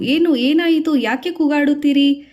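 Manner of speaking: startled neighbour asking; alarmed neighbours. Acted. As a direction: rush in and ask in alarm.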